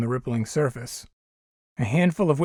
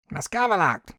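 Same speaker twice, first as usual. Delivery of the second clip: alien tongue; 5 semitones higher than usual. Acted. Alien repeats, angry.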